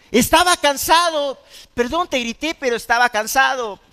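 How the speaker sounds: a touch of defensive whining; defensive excuse. Retold or imitated. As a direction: justify yourself half-heartedly. Retold excuse for shouting. (excusa defensiva a medias, imitada)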